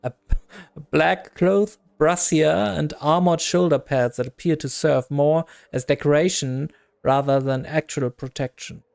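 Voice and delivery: measured storybook read-aloud; game narration. A narrator's reading. Narrator describing a tattooed woman to the player, game narration. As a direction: narrate it like a tabletop scene.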